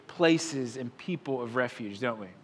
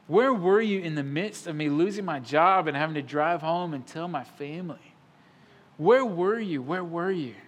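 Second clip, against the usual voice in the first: anguished crying out. Retold or imitated. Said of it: "For a lot of us, it's".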